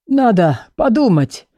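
put-on slow, husky old book voice; hoarse voice. Gerhard answers the books, husky and slow. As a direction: rasp it out slowly. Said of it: "незнакомый сиплый голос".

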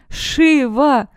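high, loud call down into the chasm; shouting into the depths. A narrator's reading. Neomara shouts into the chasm for her fallen friend, high and loud. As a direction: call her name down into the abyss. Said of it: "вновь крикнула вглубь Неомара".

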